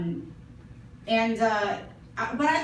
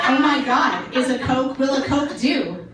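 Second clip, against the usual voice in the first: mock exasperation; 5 semitones higher, 9 dB louder than usual.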